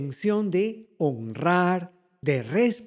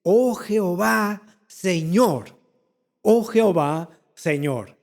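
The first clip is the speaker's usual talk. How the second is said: read scripture; 4 dB louder, slower than usual. Retold or imitated. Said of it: "versículo uno dice".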